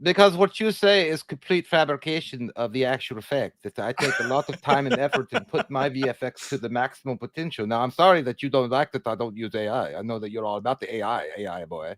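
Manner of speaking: lightly put-on voice of a defensive director; a light parody of a director defending his effects; mock Muschietti voice. Host mocks Muschietti answering the critics, a light put-on voice. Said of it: "Why does he talk like that when he's referencing Muschietti?".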